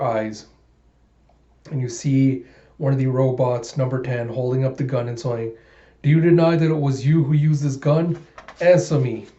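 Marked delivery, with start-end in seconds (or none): 6.0-9.3 robot interrogator. Acted. Factory robot interrogating Alita, in a cold machine voice.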